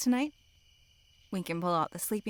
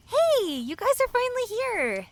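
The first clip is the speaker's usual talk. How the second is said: calling out; 6 dB louder than usual. Acted. Greeting friends arriving at campfire.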